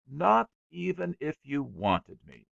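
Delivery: "not even if you wanted me" hit hard, "not" stressed; emphatic. A narrator's reading. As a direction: land the final blow with weight. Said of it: "he said at last emphatically".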